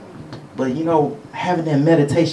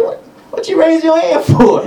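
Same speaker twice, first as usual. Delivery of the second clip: much higher, incredulous question; mock questioning; 11 semitones higher, 3 dB louder than usual. Retelling a hearing test, high mock questioning. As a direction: play up the puzzled test-taker. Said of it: "I'm like".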